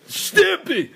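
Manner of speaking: attempted high cartoon cry; giggly, very high copycat attempt; Ren. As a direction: try the squeaky cartoon chihuahua. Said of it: "I don't think I can do that".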